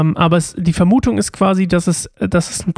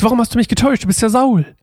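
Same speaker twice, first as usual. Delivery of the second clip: a touch of fright, higher pitch; mock frightened cry; 5 semitones higher, faster than usual. Shown as a demonstration. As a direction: let her cry out a little in fear. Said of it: "schreit quasi aus Angst". (leicht ängstlicher Ausruf, höher)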